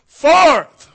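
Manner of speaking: Lazarus drawn out slow, high and loud; long ringing summons; drawn-out call. Shown as a demonstration. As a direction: call his name across the tomb. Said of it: "I believe he said".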